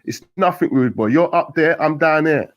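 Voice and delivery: loud, high calls between cells; shouted exchange. A narrator's reading. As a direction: keep it shouted, street banter across the wing. Inmates shouting between windows.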